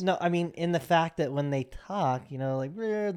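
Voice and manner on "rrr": higher-pitched growled imitation of a twang; mock twang noise. Mimicking Irish speech for co-host, mock twangy growl. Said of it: "the weird twang they have".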